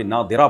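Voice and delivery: نادرہ with a d sound for the ḍād; dāl-like misreading. Shown as a demonstration. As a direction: show نادرہ misread as nadira, with d. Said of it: "ہماری رائے میں غلط ہے".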